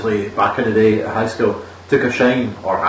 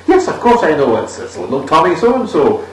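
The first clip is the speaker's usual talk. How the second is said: chirpy and cheerful; 3 semitones higher than usual. Retold or imitated. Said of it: "All chirpy and cheerful".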